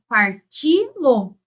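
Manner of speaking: "parti-lo" slow, with a long stressed "ti"; split pronunciation. Shown as a demonstration. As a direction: stretch "parti" and set "lo" apart in "parti-lo".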